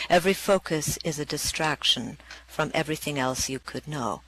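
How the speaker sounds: spoken-word poem performed with conviction; poem reading. Acted. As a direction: declaim each "by all means" with punch. Reads her poem aloud.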